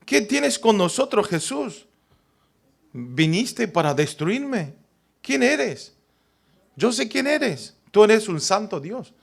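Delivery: lightly voiced unclean spirit; a touch of a frightened demon; demon's cry. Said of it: "Dice que dice".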